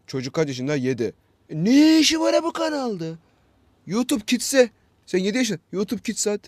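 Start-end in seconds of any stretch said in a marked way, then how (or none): 1.5-6.4 exasperated. Real, not acted. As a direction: throw up your hands at the parents. Scolding parents about kid viewers. (çok yüksek perdeden bıkkın çıkış)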